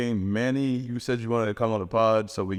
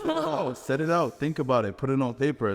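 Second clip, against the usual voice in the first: mock advice voice; 4 semitones higher than usual. Quoting manifesting advice.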